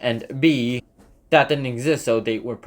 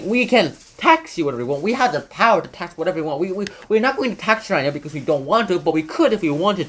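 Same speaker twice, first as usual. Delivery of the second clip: mock British parliament; 8 semitones higher, faster than usual. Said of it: "it goes on the lines of".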